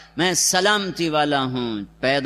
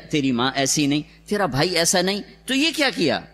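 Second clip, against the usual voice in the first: taunting; faster than usual. Retold or imitated. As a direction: mimic the crowd's scandalised reproach. Crowd taunting Maryam. (ملامت بھرا طعنہ)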